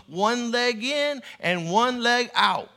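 slow, drawn-out retold reply; imitated slow answer. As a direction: imitate him, spacing the words out slowly. Retold Christian man answering the question.

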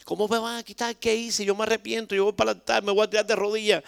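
high-pitched mock pleading tantrum; retold tantrum. Usher told he is being removed, retold pleading tantrum. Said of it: "formó una pataleta".

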